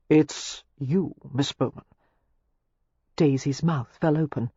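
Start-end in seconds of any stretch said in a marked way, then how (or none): 0.1-1.9 understated, intimate declaration; low voice. A narrator's reading. Clandrindon declaring himself to Miss Bowman, low voice. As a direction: let it sink gently at the end. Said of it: "Clandrindon said in a low voice".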